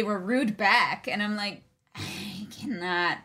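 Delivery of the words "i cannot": exasperated. Retold or imitated. Retelling her own reaction.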